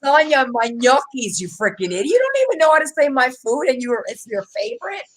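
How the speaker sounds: irritated rant. Retold or imitated. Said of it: "get under my skin".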